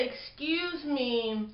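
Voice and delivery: slow, drawn-out snippy excuse me; mock-rude drawn-out excuse me. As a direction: stretch it out like you're annoyed. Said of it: "but they trying to be rude".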